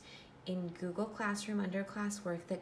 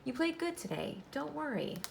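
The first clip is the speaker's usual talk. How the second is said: lightly voiced big brother, higher; cheering him up; 6 semitones higher than usual. Older brother Ronnie comforting Michael after the loss, reassuring. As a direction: encourage him, brightly upbeat. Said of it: "tried to cheer him up".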